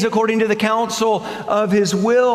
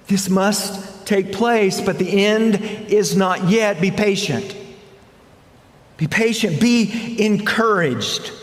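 calm a frightened church; encouraging. Acted. Voicing the Lord's encouragement.

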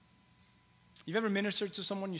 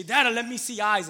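put-on higher, slower child's request; little girl voice; 6 semitones higher, 9 dB louder than usual. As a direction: lift the voice like a three-year-old. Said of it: "tends to say".

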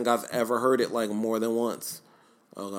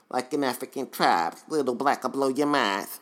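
rap line, lightly lisped; second go at a lisped impression; lisping imitation; 2 semitones higher than usual. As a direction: imitate the rapper's lisping delivery. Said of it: "did I say that again?".

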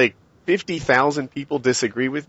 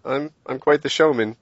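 eating dry crackers. Real, not acted. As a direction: mouth full of crackers. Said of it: "Wait, what are you eating?".

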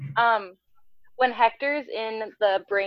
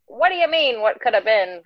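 a light, slightly raised imitation of her; 2 semitones higher, 4 dB louder than usual. Quoting her rejecting what could have been, lightly imitated. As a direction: lightly voice her firm reply to him. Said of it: "that's just the voice I do".

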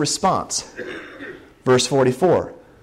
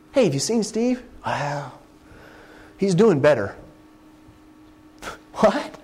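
mock church gossip. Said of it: "we talk like this".

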